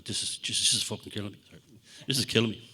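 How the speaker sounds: mock exhausted moaning; worn-out complaint. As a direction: drag the words out exhausted. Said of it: "So I started".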